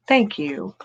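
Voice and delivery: unvoiced, breathy thank you; whispered thanks. Real, not acted.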